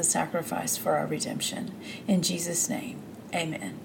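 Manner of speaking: hushed, falling away toward the amen; heartfelt prayer. Real, not acted. Host praying to God before the Bible reading, heartfelt prayer.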